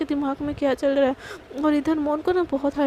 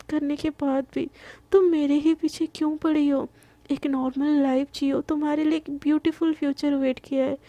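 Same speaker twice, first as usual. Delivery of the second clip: tender. Acted. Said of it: "एकदम प्यार प्यार से ना".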